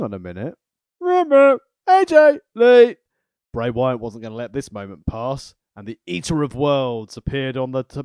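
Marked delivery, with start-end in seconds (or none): 1.0-3.0 dramatic announcer. Pretend.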